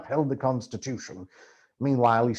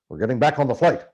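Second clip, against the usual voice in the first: louder, firm insistence; insisting; 6 dB louder, faster than usual. Acted. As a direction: insist as Hunter, no room for doubt. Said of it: "insisted Hunter".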